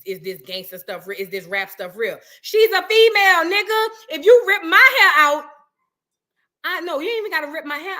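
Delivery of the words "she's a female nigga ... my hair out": loud, higher indignant outburst; heated rant. Real, not acted. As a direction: fire it back in outrage. Heated rant defending her.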